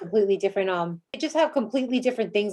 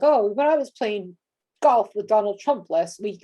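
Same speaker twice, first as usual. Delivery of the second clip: a lightly voiced bragging name-dropper, a little slower; name-dropping boast; 3 dB louder than usual. Host mocking a name-dropping candidate, slower, mild boastful voice. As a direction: drawl it out like you're showing off your famous golf buddy. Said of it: "he does that whole name dropping thing".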